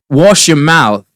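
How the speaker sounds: quoted actor's line. Retold or imitated. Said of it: "she goes".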